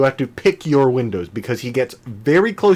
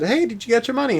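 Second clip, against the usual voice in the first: grandma voice; 12 semitones higher than usual. Retold or imitated.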